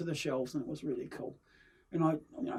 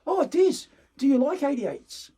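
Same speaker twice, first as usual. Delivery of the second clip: high, loud eager question; bubbling over like a kid with a toy; a hammed-up excited Peter asking Des; 10 semitones higher, 6 dB louder than usual. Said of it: "And he goes".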